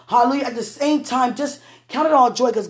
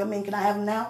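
hushed ask; 6 dB quieter, faster than usual. Pretend. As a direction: slip it in quietly. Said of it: "No, I'm just kidding".

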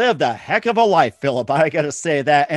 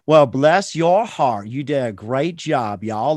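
slow mock Southern lady; light Southern belle accent; Southern drawl; 3 semitones lower, slower than usual. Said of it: "real Southern".

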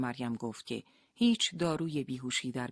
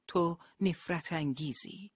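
slow, cold loathing; with hatred; 3 semitones higher, slower than usual. Acted. Leila to her husband, slow and full of hatred. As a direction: spit it out slowly with disgust. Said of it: "با نفرت".

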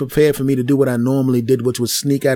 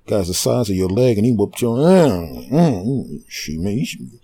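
put-on kids teasing; 5 semitones lower than usual. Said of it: "all the rest of the kids are like".

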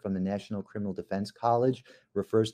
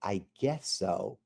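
evasive witness; 5 dB quieter, slower than usual. Shown as a demonstration. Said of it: "the witness answers".

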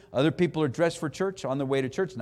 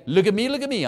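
showy Pharisee; 5 semitones higher, 4 dB louder, faster than usual. Retold or imitated. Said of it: "It was as though they were saying".

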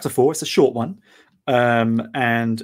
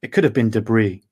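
story narration. Acted. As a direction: read it like an audiobook, steady and tense. Reads his novella chapter aloud.

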